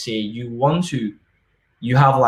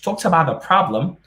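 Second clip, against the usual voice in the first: imagined student asking; 5 semitones higher than usual. Retold or imitated. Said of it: "asking me".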